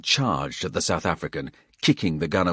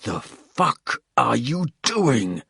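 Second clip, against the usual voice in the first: angry demand; 6 semitones higher, 4 dB louder, slower than usual. A narrator's reading. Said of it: "rage brewing in his veins".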